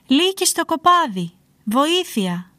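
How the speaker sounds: high, loud cry easing off at the end; shouted alarm. A narrator's reading. Shepherd repeating his prank on villagers, shouting alarm. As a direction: raise a false alarm in a storybook shout. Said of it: "άρχισε να φωνάζει".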